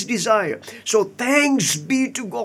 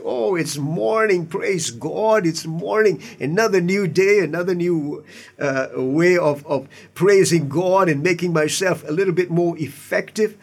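bright, grateful "Oh, it's morning"; cheerful praise. Retold or imitated. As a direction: greet the morning gladly. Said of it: "We say".

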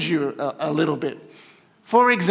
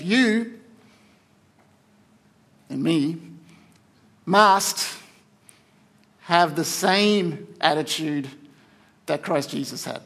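weighty scripture reading, piece by piece; slow, deliberate reading; slower than usual. Real, not acted. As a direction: say it slowly, with long pauses to let it sink in. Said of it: "gotta say this slowly".

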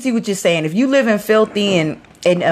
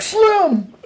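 retold yell; 13 semitones higher than usual. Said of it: "I was like".

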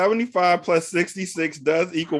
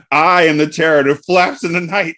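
loud mock Batman line; superhero voice; 3 semitones higher, 5 dB louder than usual. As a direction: boom it out like a caped hero. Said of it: "That sounds like some Batman shit".

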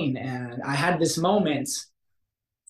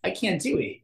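freaking out; 3 semitones higher than usual. Retold or imitated. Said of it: "freaking out".

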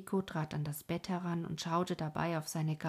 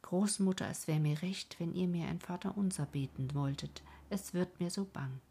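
a hint of a weak, dying old man; very old faint voice. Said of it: "sagte mit schwacher Stimme".

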